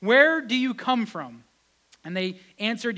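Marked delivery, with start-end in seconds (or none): 0.0-1.4 demanding. Retold or imitated. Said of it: "Joshua demanded".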